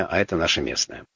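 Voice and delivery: normal talking voice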